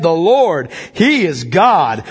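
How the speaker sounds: slow, firm declaration; crowd's proclamation. Acted. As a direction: proclaim it with steady awe. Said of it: "fell on their faces and said".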